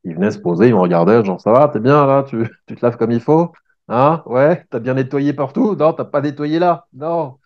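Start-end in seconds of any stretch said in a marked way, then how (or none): 1.4-7.4 teasing, higher dog voice; voicing the dog. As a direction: playfully quiz yourself as the dog. (le chien qui taquine, voix plus aiguë)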